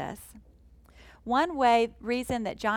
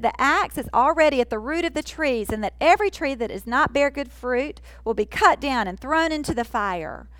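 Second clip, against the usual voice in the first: bold; 4 semitones higher, 5 dB louder than usual. Retold or imitated. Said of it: "John sounds very bold".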